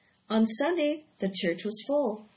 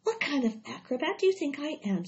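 a touch of disgust, higher; mild disgust; 6 semitones higher than usual. Acted. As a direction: scoff lightly at the silly idea. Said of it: "said Charlotte in disgust".

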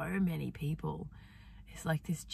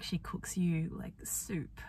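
tender whisper; 3 semitones higher, 4 dB quieter than usual. Real, not acted. Tender memory of mum.

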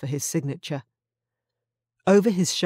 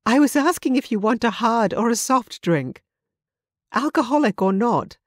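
higher and louder, giggling through the words; girlish giggles; 7 semitones higher, 5 dB louder than usual. Acted. Bartender teases the confused customer, a touch of giggling. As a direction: laugh it out, amused by his mistake. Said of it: "she said through girlish giggles".

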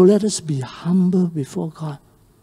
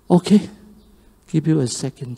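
soft, lower, fading pardon; gentle forgiveness; 5 semitones lower, 3 dB quieter, faster than usual. Acted. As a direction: let him off quietly. Master forgives the debt.

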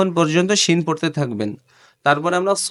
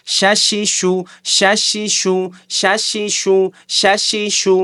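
শ্যাশিশু run together fast in one breath; quick drill; 3 semitones higher, slower than usual. Shown as a demonstration. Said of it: "দ্রুত দ্রুত বলতে হবে".

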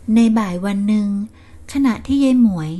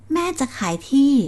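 surprised echo; 5 semitones higher than usual. Acted. Son echoes shocked.

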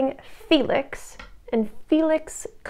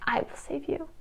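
Henry; 3 semitones higher, 12 dB quieter than usual. Retold or imitated. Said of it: "So he's like".

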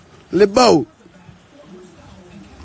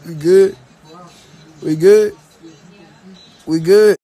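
insistent pleading; 4 semitones lower, 5 dB louder than usual. Acted. Repeats truce question insistently.

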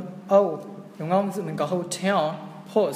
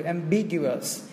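"ambiguous" stressed on the second syllable, bi; 2 semitones lower, much slower than usual. Shown as a demonstration. Teacher introduces the word ambiguous, stress on its bi syllable. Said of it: "trọng âm nó rơi vào âm B".

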